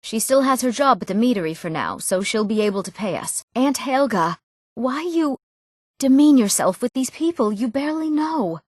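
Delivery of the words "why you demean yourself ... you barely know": higher-pitched, indignant reproach; disapproving, voice pitched up; indignant scolding. Acted. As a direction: scold them with raised pitch. Scolding someone over their company.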